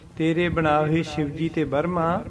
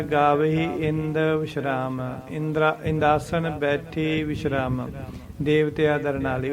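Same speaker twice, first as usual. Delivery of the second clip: brief pauses after ਇੰਦ and ਬੈਠੇ; short pauses. Shown as a demonstration. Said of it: "ਥੋੜ੍ਹਾ ਥੋੜ੍ਹਾ ਰੁਕਣਾ ਹੁੰਦਾ ਹੈ".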